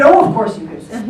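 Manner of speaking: retelling her words while laughing; laughing quote. Retold or imitated. Retelling what the producer said, laughing. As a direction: laugh through the producer's insistence. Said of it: "and she said".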